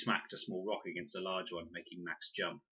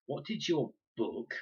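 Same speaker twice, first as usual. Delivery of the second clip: distrustful; 7 semitones higher, slower than usual. A narrator's reading. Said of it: "pronounced the word with distrust".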